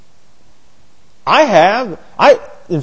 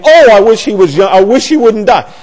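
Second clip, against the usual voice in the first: mock mourner; 5 semitones higher, 4 dB louder than usual. Mourners of Billy Graham.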